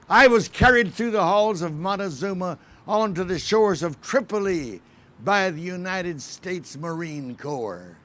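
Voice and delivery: solemn speech in the flag's voice; proud, stately flag monologue; patriotic recitation. Acted. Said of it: "as I bring you a message from the very heart of Old Glory".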